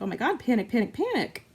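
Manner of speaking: mock panic. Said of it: "my anxiety was like".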